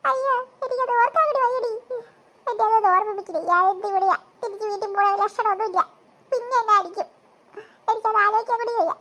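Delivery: acted tearful whining; crying. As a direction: lament it like a hard-done-by child. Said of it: "നീ എന്തിനാ കരയുന്നേ".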